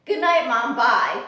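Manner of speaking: bright chirpy bird voice, loud; parrot goodnight. Retold or imitated. Bird's goodnight voiced by owner.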